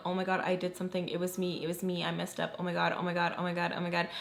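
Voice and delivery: quiet, hurried self-blame; panicked thinking. Retold or imitated. Teller retelling her private worry that she messed up, panicked. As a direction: spiral under your breath, acting out panicked thoughts. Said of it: "literally thinking".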